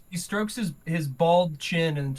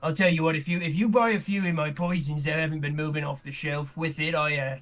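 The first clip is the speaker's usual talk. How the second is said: lightly voiced scheming old alchemist; a hint of a sly shopkeeper; mustache twirling villain. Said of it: "and he goes".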